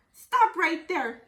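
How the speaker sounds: slow, loud call to halt; firm, drawn-out yell to stop; grandma yelling. Acted. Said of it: "yelled Grandma".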